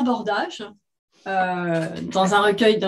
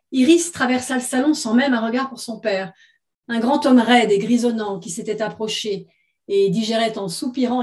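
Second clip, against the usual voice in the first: measured literary read-aloud; story narration. A narrator's reading. Author reading her short story to listeners, story narration. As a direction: read it as written fiction, phrase by phrase.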